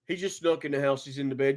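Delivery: quiet, low-key officer telling a parent; hushed cop. Retold or imitated. Cop quietly breaking the news.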